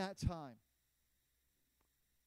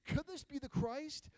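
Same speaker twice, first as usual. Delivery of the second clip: wondering aloud; 5 semitones higher, 3 dB louder than usual. Acted. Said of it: "she's wondering".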